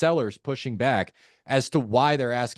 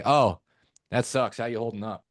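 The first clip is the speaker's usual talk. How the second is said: offhand, perfunctory sympathy; unconcerned tone. Shown as a demonstration. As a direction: toss off the condolence without caring. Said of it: "two completely different tonalities".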